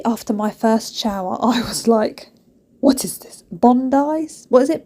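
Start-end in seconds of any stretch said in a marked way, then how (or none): 2.8-4.8 baffled reaction. Retold or imitated. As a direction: act out bewilderment at the streaks. Quotes her baffled reaction.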